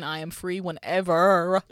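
slow flirty come-on. Pretend. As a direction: purr it like a pickup line. Flirting at listener's mother.

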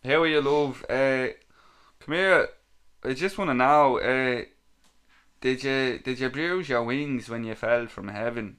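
hammed-up Dublin chat-up; put-on Dublin accent for a cheesy pick-up line. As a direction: lay on your best Dublin accent, starting loud. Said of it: "in my best Dublin accent".

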